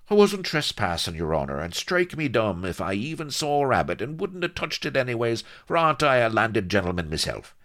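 high, pleading protest; panicked despair. Acted. Pinned fugitive pleading with his captor, desperate. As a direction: protest your innocence in a rising panic. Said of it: "panted in despair".

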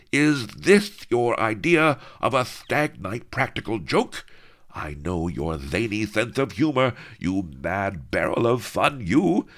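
loud, high blustering brute; hammed-up furious nobleman; raging viceroy. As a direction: bluster and roar at him. Lardo raging at the door.

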